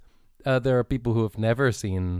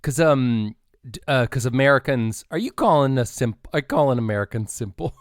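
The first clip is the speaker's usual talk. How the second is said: playfully indignant, louder; mock outrage; 4 dB louder than usual. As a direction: fake offence at a friendly jab. Mock offence at teasing.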